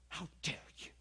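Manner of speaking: whispered indignant "How dare you"; mock angry hiss. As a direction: hiss it like an offended churchwoman. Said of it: "she was just way mad".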